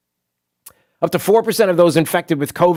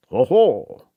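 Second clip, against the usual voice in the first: French sound. Retold or imitated. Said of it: "the generic French, uh, sound?".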